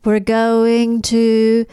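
very slow mock Russian accent. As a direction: drag out each word in mock Russian. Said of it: "She's like".

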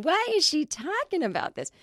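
high puzzled mom voice; imitating mom. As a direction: whine it like a baffled mother. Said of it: "she'll be hearing this going".

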